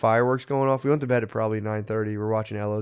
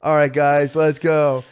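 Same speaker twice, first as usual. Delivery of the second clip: mock countdown host; 3 semitones higher, 5 dB louder, much slower than usual. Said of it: "you just being like".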